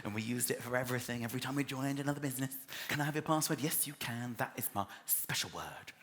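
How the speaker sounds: remember it fondly; soft nostalgia. Shown as a demonstration.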